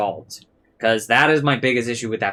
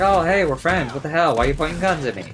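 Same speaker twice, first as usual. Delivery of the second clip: mock-hurt Spider-Man; 6 semitones higher, faster than usual. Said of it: "Spider-Man's like".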